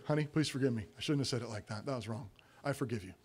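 very soft, low confession; tender apology. Acted. Spouse apologises in the back room, low and hushed. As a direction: murmur an apology to your spouse.

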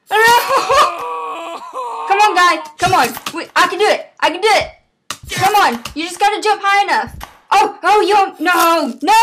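frustrated pleading. Pretend. Player begging pogo guy to jump, frustrated pleading. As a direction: urge the stuck character on, voice pushed up.

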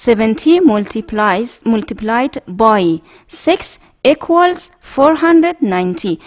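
slow, clear model reading. Shown as a demonstration. Teacher reading a multiplication problem aloud for the class, slow. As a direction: say each word slowly.

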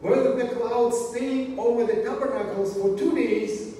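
measured, emphatic scripture reading. Acted. Preacher reading the cloud passage to the congregation, emphatic scripture reading. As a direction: read it out phrase by phrase to the congregation.

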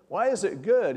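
high, loud imitated objection; incredulous protest. Husband challenges his pastor, imitated disbelief.

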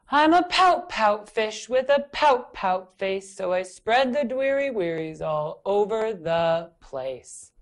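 slow, droning pout-pout chant; slow pouty refrain. Acted. Fish reciting his gloomy refrain slowly. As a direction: drag out the refrain. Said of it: "Says the fish".

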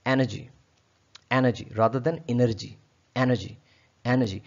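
energy said en-uh-jee with an open e; energy with e as in set, no r; correct pronunciation. Shown as a demonstration. Teacher drilling en-uh-jee. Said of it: "सही pronunciation क्या बनेगी".

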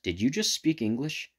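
slow, high astonished question; surprised question. Acted. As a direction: ask it in disbelief. Trainer asks his Pokemon, astonished.

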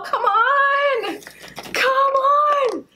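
will it out with all your strength; straining urge. Pretend. Urging the ball out, straining.

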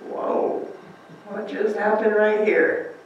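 breathless whoa, slow and soft; stunned and hushed, slowly taking it in; a soft, slow mock gasp of wonder; awed disciple. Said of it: "it would be like".

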